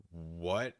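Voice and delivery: ordinary talk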